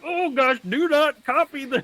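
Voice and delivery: high-pitched mock alarm; frantically telling yourself to stop; panicked self-warning. Frantic self-talk against mimicking.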